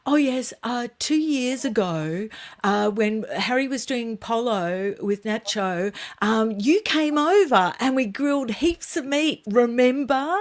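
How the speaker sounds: imitating a jumbled, halting answer. Caught out by the producer's question, jumbled. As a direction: stumble through a made-up recollection. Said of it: "Meghan sort of jumbled and she goes".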